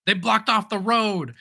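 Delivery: high, drawn-out mock complaint; mock exasperation. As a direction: imitate an exasperated driver, slowly. Retold exasperated driver phone call.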